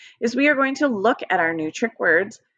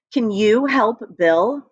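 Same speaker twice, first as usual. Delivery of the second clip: slow teacher read-aloud; 2 semitones higher, slower than usual. Shown as a demonstration. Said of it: "as I read it, you can figure out what the red word is".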